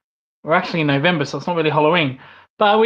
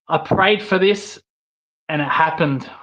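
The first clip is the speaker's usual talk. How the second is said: put-on terrible Scottish accent. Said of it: "That's a terrible Scottish accent, trying to copy Drew McIntyre".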